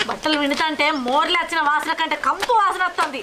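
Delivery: low-pitched, disgusted grumbling; grumbling scolding. Acted. Wife washing her husband's stinking clothes, grumbling in disgust. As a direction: scold under your breath while doing a filthy chore. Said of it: "ఎవరిని తిడుతున్నావు".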